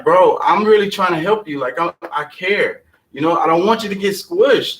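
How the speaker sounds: mildly exasperated, earnest appeal; earnest plea. Acted. Telling a bro he really cares and wants to help, pleading. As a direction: plead with him to listen.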